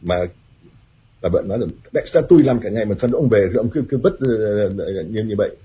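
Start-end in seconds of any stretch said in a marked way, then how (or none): 1.9-5.5 louder, accusing wife's complaint; aggressive nagging. Retold or imitated. Wife scolding husband home from work, louder and accusing. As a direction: hurl it at him as a reproach. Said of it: "cách nói như vậy đó, nó là một cái sự hung hãn".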